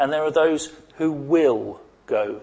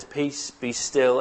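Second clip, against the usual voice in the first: calm command; 2 semitones lower, much slower than usual. Retold or imitated. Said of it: "he wipes the sleep out of his eyes and he says".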